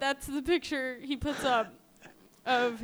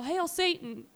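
mild mock yell, pitched up; retold yell; 6 semitones higher than usual. Defendant taunting people in court, half-hearted yell. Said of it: "and he would yell".

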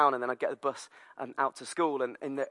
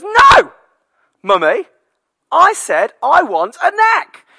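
put-on much higher, much louder, slow toddler yell; toddler tantrum shout; 17 dB louder, slower than usual. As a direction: scream the demand like a stroppy toddler. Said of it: "And he goes".

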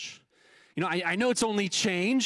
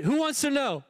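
gruff phone challenge; 7 semitones higher than usual. Retold or imitated. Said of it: "you were supposed to say".

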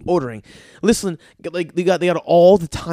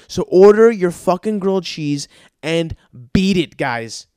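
mock shout; 6 dB louder than usual. Ranting at the slow tourists.

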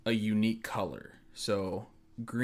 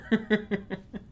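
high laugh; 11 semitones higher than usual. Real, not acted. Reacting to spoiler.

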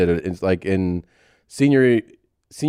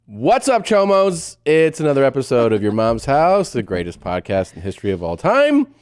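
show intro; 2 semitones higher than usual. Real, not acted. Show opening intro to listeners.

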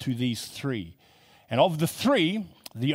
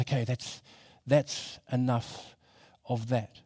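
composing himself. Retold or imitated. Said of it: "quickly he gets himself together".

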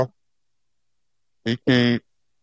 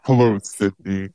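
low, slow menacing phone voice; the creepy caller from Scream; 4 semitones lower than usual. Retold or imitated. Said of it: "My robot voice".

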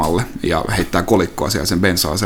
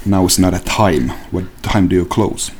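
cold Chigurh; 2 semitones lower than usual. Acted. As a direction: press the question slowly. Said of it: "gas station proprietor".

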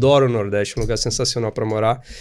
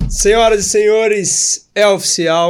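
mock announcer; 6 semitones higher, 6 dB louder, slower than usual. Grand announcement opening the episode.

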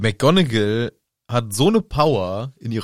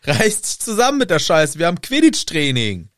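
Angelina; 5 semitones higher than usual. Acted. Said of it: "eben noch gesagt als Angelina".

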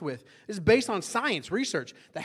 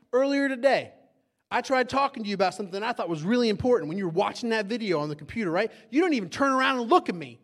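raised, indignant complaint; mock accusation; 4 semitones higher, 4 dB louder than usual. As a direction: lay out the grievance with a loud, high start and finish. Accusing wife of ignoring him.

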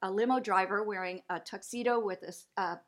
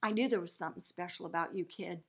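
soft fond voice; 3 semitones lower, 6 dB quieter, faster than usual. Retold or imitated. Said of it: "and he goes".

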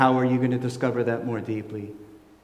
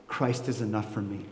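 quiet, sincere; sincere, from experience; 3 semitones lower, 6 dB quieter than usual. Shown as a demonstration. Preacher shows how he says it now. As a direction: say it like you've lived it. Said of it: "it comes out different when you say".

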